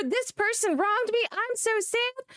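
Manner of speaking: mock her fake sadness with a high whine; mock whiny sad woman. Streamer mocking a woman fishing for sympathy, high whiny mock sob-story voice.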